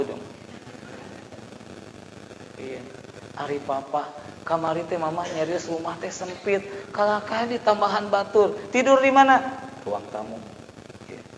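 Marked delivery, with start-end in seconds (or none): 3.4-9.4 annoyed wife. Acted. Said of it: "istrinya marah-marah". 9.8-10.4 very soft, low reply; meek husband's answer. Acted. Husband answers his angry wife.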